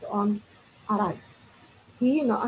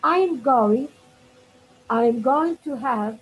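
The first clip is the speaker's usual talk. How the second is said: slow, drawn-out read; 3 semitones higher, 4 dB louder, slower than usual. Shown as a demonstration. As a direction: stretch it out while reading. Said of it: "uh, sorry".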